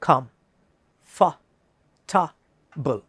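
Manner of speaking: കംഫർട്ടബിൾ said very slowly as KUMF-tabl; slow comfortable. Shown as a demonstration. Teacher says listen, then models slowly. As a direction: draw out കംഫർട്ടബിൾ. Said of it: "ശ്രദ്ധിക്കുക".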